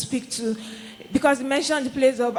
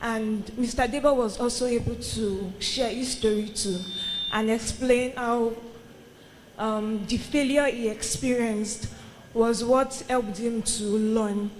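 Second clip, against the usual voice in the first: wearing a retainer. Real, not acted. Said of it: "retainers in case I sound funny".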